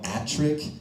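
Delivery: "Attrick" said with no P at the start, just "At-trick"; name without the P. Shown as a demonstration. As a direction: drop the P and say "Attrick". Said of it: "I have to type out Attrick".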